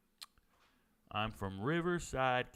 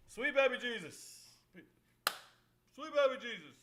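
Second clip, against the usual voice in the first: amazed exclamation; 11 semitones higher than usual. Real, not acted. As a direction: gasp it out in awe. Amazed reaction to play.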